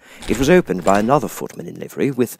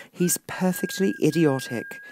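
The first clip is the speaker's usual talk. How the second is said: desperate; 9 semitones higher than usual. Acted. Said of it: "said Alice desperately".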